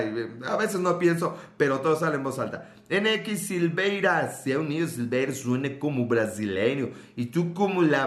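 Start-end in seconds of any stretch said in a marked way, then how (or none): 2.9-4.3 put-on Brazilian accent. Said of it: "en ese acento brasileiro".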